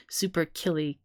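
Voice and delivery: pun said through a laugh. Real, not acted. Joking pun on the word.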